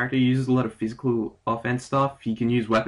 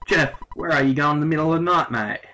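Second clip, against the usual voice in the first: put-on a light British schoolboy accent, a touch louder; 3 semitones higher, 3 dB louder than usual. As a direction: play Tony in a half-Aussie British accent. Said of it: "sounded more like myself being an Australian or British".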